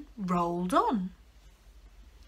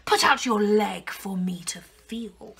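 wolf voice. Acted. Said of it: "said the wolf".

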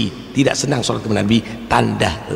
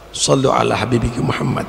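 call out. Acted. Call to the congregation.

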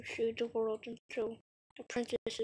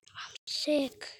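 whisper; 3 semitones higher than usual. Acted. Gamer declaring himself sick, whisper. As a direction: barely breathe the words. Commenting on his character.

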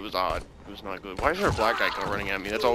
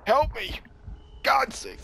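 yelling for help; 10 semitones higher, much slower than usual. Real, not acted. Downed in game, calling.

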